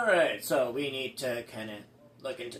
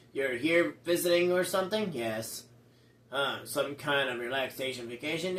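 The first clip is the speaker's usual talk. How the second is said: sarcastic; 2 semitones lower than usual. Acted. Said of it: "the sarcastic guy, Rudy".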